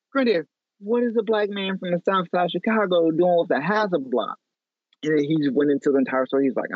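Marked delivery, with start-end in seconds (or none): 0.1-4.3 higher, incredulous retold question; mock amazement. Grandson stunned, asking granddad about the Hasselblad, higher.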